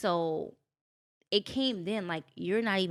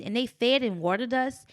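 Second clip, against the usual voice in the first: higher, louder imitation of an English accent; 5 semitones higher, 6 dB louder than usual. London friend telling her about the retreat, imitated English accent. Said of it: "English accent. She's like".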